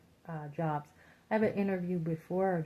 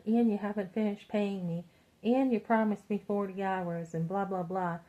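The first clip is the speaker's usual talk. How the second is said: mock rant; 3 semitones higher, 3 dB louder than usual. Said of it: "so I was ranting at them".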